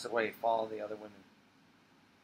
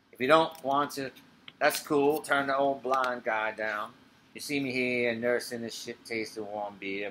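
low man's voice. Acted. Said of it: "she becomes Ray".

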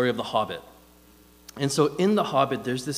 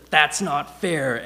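slow, loud mock Gollum wail; Gollum screaming; 3 semitones higher, 4 dB louder, much slower than usual. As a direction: draw out each word like a cheated creature. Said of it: "screams, he freaks out".

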